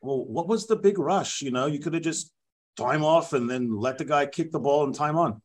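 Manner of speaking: lightly put-on French referee explaining himself; a hint of a French accent, rambling excuses; the speaker voicing a French referee in a French accent; mock French accent. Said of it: "this is my actual interview".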